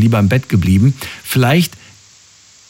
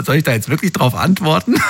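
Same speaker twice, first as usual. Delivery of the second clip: laughing; 4 semitones higher than usual. Real, not acted. Amused retelling of US small talk.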